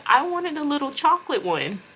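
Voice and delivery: high falsetto longing; mock wistful. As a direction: imitate Lupe's wish earnestly. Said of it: "She said".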